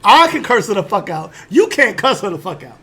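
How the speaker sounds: loud, laughing hey-hey protest. Retold or imitated. Narrator voicing Wanda's protest, loud and laughing. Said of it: "all of a sudden saying".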